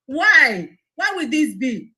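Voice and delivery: a loud, outraged why; indignant outburst; angry cry. Real, not acted. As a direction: fling the question out in anger. Outraged rhetorical question.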